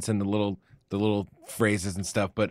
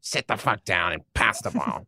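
mock coach; 3 semitones lower, 4 dB quieter than usual. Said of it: "Yeah, there you go".

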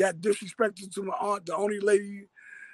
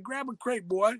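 imitating Slim; 3 semitones higher than usual. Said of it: "That's how he talked".

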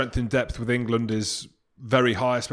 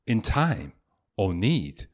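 slow, hammed-up Scottish accent for Burns; 3 semitones lower, slower than usual. Reading Address to a Haggis to podcast listeners, in a put-on Scottish accent. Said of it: "A nice accent as well that you put on there".

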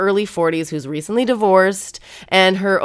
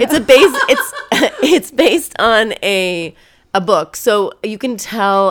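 laughing; 3 semitones higher, 4 dB louder, slower than usual. Real, not acted. Laughing while explaining.

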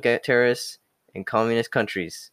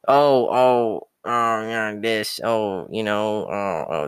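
mock complaining; much slower than usual. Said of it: "they fucking complain about everything".

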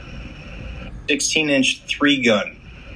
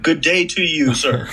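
lightly hammed old-fashioned gentleman; old-timey guy voice; 6 semitones higher than usual. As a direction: tip your hat, a touch of olden-days charm. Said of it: "divulging into old-timey guy voice".

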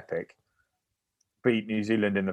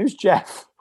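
very high-pitched puzzled question; baffled; 10 semitones higher than usual. Retold or imitated. Coach on the phone baffled by the name, imitated high and puzzled. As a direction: squeak it out in mock confusion.

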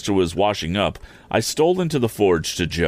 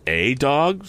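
hopeful question; 7 semitones higher than usual. A narrator's reading. Joe pleads for one dog.

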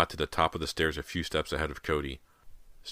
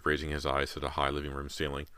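ordinary delivery, nothing marked

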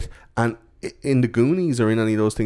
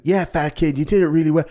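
higher, louder gushing; mock cheering praise; 8 semitones higher, 4 dB louder than usual. Bullies praising Horace, lightly hammed high praise. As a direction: cheer him on like an impressed kid.

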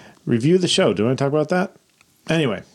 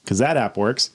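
sarcastic; 3 semitones lower than usual. Real, not acted. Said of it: "I sense sarcasm".

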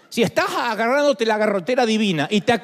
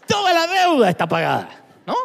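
comic phone call; 4 semitones higher than usual. Acted. Phone call husband and wife.

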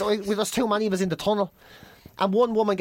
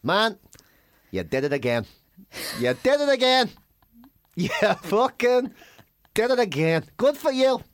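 mock praise. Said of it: "a line that gets me out of trouble".

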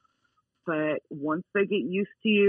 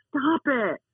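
higher-pitched firm command; dog correction; 6 semitones higher than usual. Shown as a demonstration. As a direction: correct the dog without really yelling. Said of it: "correcting your dog and saying".

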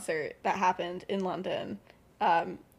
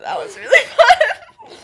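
high, slow words broken by a laugh; laughing fondly; 15 dB louder, slower than usual. Retold or imitated. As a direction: laugh through the happy memory. James recalling makeup fun.

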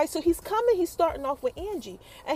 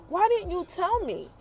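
higher-pitched, indignant questioning; mock heated; 4 semitones higher than usual. Angie confronts Jamie over the reason he left, mock heated. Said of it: "she's heated".

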